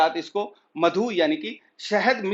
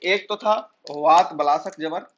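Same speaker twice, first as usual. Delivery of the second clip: slow dictation; slower than usual. Shown as a demonstration. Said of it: "इसी से लिख देते हैं हम".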